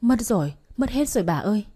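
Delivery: mild wailing lament; a touch of tearful outcry; acted loud crying. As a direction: cry out your loss to a neighbour. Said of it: "Cái gì mà bà khóc inh thế".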